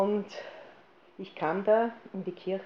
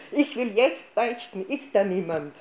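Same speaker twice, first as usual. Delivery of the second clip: annoyed demand; 5 dB louder than usual. Retold or imitated. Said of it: "ich stürzte ärgerlich auf ihn zu".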